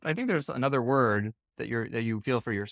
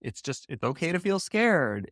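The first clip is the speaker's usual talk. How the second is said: gentle reassurance; 2 semitones higher, slower than usual. Retold or imitated. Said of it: "now it's like".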